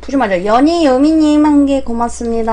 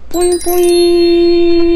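slow, high cutesy aegyo; cutesy baby talk; 5 semitones higher, much slower than usual. Acted. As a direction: coo it like a baby. Cutesy catchphrase after self-intro.

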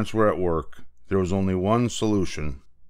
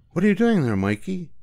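mom voice; 10 semitones higher than usual. Acted.

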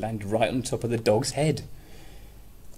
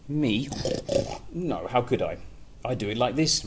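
louder, higher pig; 3 semitones higher, 3 dB louder than usual. Acted. Pig answering the mole, loud and higher. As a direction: snort it out like a pig. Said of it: "replied the pig".

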